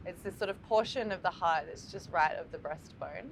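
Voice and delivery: calm meditation guide, long pauses between phrases; guided meditation. Acted. Teacher guiding listeners to breathe into the heart, calm meditation voice. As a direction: lead listeners gently through the breath, leaving space after each phrase.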